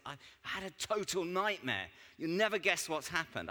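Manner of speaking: high-pitched mock alarm; retold, exaggerated distress; acted dismay. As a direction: play the panicked friend breaking the news. Friend reports disaster, acted.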